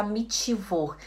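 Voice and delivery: "Mittwoch" as "mitchivor"; Brazilian "chi". Retold or imitated. Teacher imitating Brazilian learners, "Mittwoch" with chi. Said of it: "a gente fala muito esse ti".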